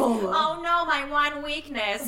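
cartoon villain. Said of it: "He's like a Scooby-Doo villain".

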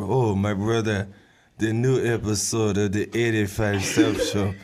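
hammed-up African accent. Podcaster imagining an African fan of the show, mock African accent. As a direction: put on a bad, comic African accent. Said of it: "That is the worst African accent ever".

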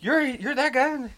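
high, slow, stammered question; awed disbelief. Retold or imitated. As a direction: imitate someone amazed to meet a legend. Impressed stranger's reaction retold.

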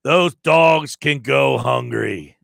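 slow, mock Greek accent; lightly imitated Greek accent, drawn out. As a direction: quote him slowly with a hint of a Greek accent. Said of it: "in his heavy Greek accent".

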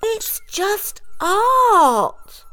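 very slow, high drawn-out scoff; dismissive. A narrator's reading. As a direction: roll your eyes at it. Mice dismiss.

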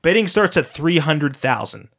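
slow, charming showman announcement; game show host. Acted. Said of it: "charming game show host from hell demeanor".

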